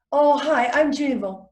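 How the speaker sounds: hurried, run-together introduction; name rushed. Shown as a demonstration. Showing students what not to do, name rushed. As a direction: rattle the name off fast. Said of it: "say our name really fast".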